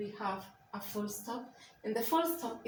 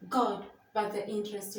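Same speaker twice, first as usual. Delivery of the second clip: raised in surprise. Shown as a demonstration. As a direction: voice raised in shock. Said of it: "the voice will be raised".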